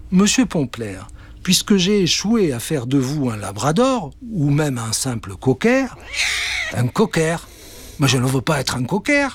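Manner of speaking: high, polite witch voice; apologetic witch. Acted. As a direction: make amends with magic. (sorcière aiguë et polie)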